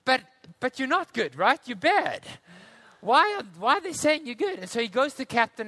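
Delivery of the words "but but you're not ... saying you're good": higher, puzzled protest; confused. Retold or imitated. Confused newcomer questioning his teammates, puzzled. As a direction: sound baffled and questioning. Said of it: "And he says".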